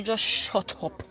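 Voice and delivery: slowed and deliberate, each word weighed; measured, steady put-down; slow firm retort. Retold or imitated. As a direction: cut him off slowly and firmly. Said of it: "I say".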